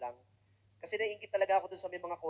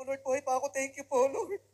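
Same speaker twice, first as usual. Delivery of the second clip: high, grateful cry to the Lord; relieved mock prayer; 5 semitones higher, 4 dB louder than usual. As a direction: thank the Lord like you barely survived. Thanking God after surviving the train. (parang nagpapasalamat na nakaligtas, mataas na boses)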